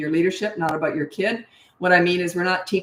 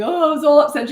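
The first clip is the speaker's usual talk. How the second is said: put-on whiny child; 9 semitones higher, 6 dB louder than usual. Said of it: "say something".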